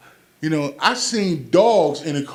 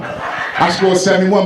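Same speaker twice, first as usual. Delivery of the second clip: indignant repeat; 3 semitones higher, 6 dB louder, slower than usual. Retold or imitated. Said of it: "He said".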